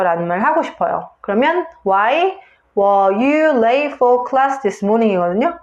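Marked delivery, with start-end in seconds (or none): 1.9-5.1 English intonation with "late" and "class" standing out; content-word stress. Shown as a demonstration. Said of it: "강세를 줘야 될 단어들은 why, late".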